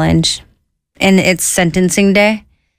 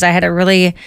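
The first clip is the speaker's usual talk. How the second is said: normal talking voice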